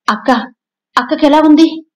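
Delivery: desperate worry for her sister; anxious. A narrator's reading. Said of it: "ఆదుర్దాగా అడిగింది శర్మిష్ఠ".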